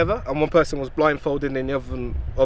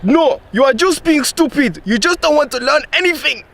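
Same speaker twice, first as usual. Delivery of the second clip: imitated African accent; 11 semitones higher, 3 dB louder than usual. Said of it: "he did this funny accent voice".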